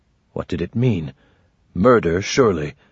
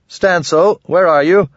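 calling out; 8 semitones higher, 5 dB louder than usual. Acted. Calling for his missing son.

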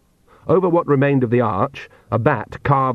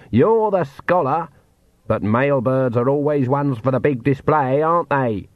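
put-on dry old woman; 3 semitones higher than usual. Granny voiced, dry.

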